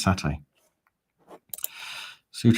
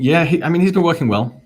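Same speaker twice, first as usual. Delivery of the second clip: high, excited; 10 semitones higher, 9 dB louder than usual. Shown as a demonstration. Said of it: "He has been working well".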